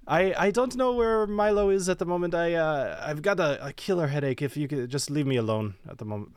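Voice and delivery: loosely attempted Spanish-accented tiefling; Seraphina. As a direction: wave off a visitor in a rough voice sketch. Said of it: "I'm just gonna throw something out there".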